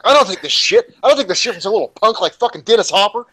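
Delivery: retold outburst, high-pitched and indignant; Marlon Brando. Star flips out at his co-star's jibe, mock fury. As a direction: act out flipping out, pitch jumped way up. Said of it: "fucking Marlon flips out".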